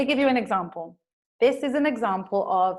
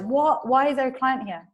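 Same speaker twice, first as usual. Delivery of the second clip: alarmed, higher and louder questioning; mock fright, pitch jumping up; frightened reaction; 4 semitones higher, 5 dB louder than usual. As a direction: act out a startled, frightened question. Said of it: "Bobby is feeling very frightened".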